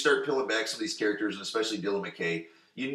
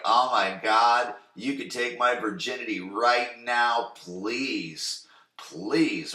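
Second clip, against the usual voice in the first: slow, breathless mock swoon; swooning Brenda; much slower than usual. Brenda swooning over dripping-wet Dylan, slow mock swoon. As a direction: drag it out like a lovestruck teen. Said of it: "Brenda's just like".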